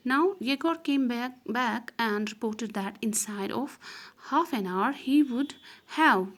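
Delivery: slow, deliberate reading of the English text; slow story reading. Acted. Teacher reading the story aloud to students, slow and deliberate. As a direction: read each phrase slowly for the class.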